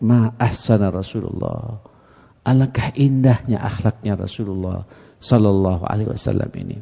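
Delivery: retold hushed reverence; moved admiration. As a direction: marvel quietly, letting the voice sink away. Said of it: "Kata dia".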